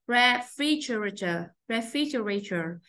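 "Refrigerator" with the stress on FRIG; second-syllable stress. Shown as a demonstration. Teacher modelling word stress for students, second syllable of "Refrigerator" stressed. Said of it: "Nhớ âm hai, âm hai hết".

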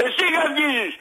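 high, indignant comeback; real angry retort. Real, not acted. Caller told he is barking retorts, angry. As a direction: fling the accusation straight back. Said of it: "Μη φωνάζεις, ήρεμα".

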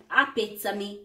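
apetame slowly, the Italian way, ah-peh-tah-mee; slow Italian-style apetame, ah-peh-tah-mee; Italian pronunciation. Shown as a demonstration. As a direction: draw out apetame with Italian vowels. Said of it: "I'm using the Italian pronunciation".

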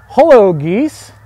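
slow, high, loud greeting; calling out to geese. Real, not acted. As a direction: call out to the birds. Wow, those are loud.

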